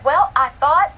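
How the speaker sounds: put-on high and loud childlike start; little girl voice. Mother voicing her daughter's bold report, high child voice. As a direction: launch in like a proud four-year-old.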